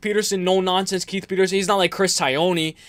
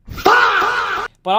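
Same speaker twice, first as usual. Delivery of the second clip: shouting; 14 semitones higher than usual. Real, not acted. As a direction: yell it out. Loud shout before quote.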